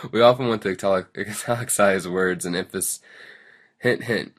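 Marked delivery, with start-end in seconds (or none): 0.0-3.0 real laughter breaking into the reading; laughing read-aloud. Real, not acted. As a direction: stumble through the words while giggling. Laughs while stumbling over lesson text.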